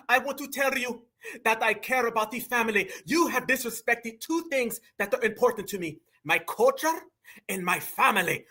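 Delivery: a light put-on Latino accent, soft and earnest; mocking his speech with a hint of accent; mock Puerto Rican accent. Mocking Carmelo's speech to the crowd, light accent. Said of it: "This man sound like Oscar De La Hoya".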